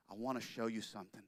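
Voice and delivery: hushed secret whisper to his wife. Acted. Walt telling his wife, whispered. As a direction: breathe it like a secret. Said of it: "he says".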